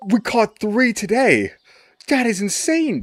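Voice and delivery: high, loud delighted squeal with a laugh; thrilled squeal. Real, not acted. Gamer squealing at a legendary fish catch, thrilled and loud. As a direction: shriek with joy at the catch.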